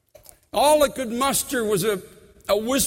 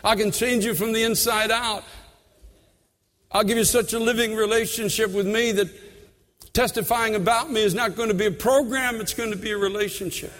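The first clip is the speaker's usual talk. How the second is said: loving voice of the Lord. Retold or imitated. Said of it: "the Lord so lovingly saying".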